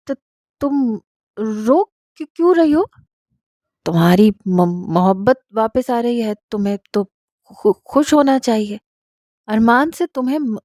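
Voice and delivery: husband gently stammering out his puzzlement; halting, bewildered questions to his crying wife; stammering husband, puzzled. Acted. Husband asks tearful wife why she cries, stammering.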